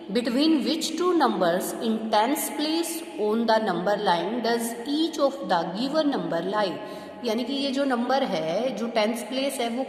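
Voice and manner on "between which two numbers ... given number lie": reading the question out very slowly; slow read-aloud. Shown as a demonstration. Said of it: "जिसमें कहता है कि". (सवाल बहुत धीरे पढ़ते हुए)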